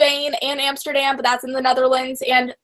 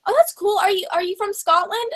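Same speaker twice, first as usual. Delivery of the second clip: mock tourist gushing; 6 semitones higher than usual. People asking at the castle.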